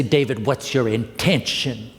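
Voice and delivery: lightly Southern, drawn-out question; Southern accent. Retold or imitated. Therapist leaning in to ask his client, Southern accent. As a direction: ask it slowly with a touch of Southern. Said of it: "with a Southern accent".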